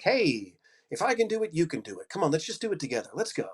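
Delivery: rally them, if I can you can; inspirational pep. Shown as a demonstration. Coach demoing his inspirational voice to students, quick upbeat pep. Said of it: "I have an inspirational voice".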